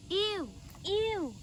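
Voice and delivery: disgusted. Real, not acted. Finds cocoons under crypt.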